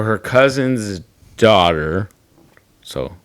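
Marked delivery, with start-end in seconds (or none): 0.0-2.1 deliberately slow, stretched words. Real, not acted. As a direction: lay it out slowly. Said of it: "I'm gonna say it slow".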